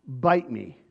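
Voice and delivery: low, curt dismissal; mild mocking sneer; defiant bite me. Shown as a demonstration. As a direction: throw it off with contempt.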